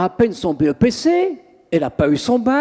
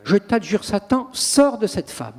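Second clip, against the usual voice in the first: exorcist command. Shown as a demonstration. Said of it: "je vais vous la dire très simplement".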